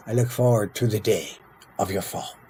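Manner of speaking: measured delivery, pausing before "of your fall"; unhurried, falling away at the end. Acted. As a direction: draw out a solemn in-character threat. Reads rival leader's threat in role.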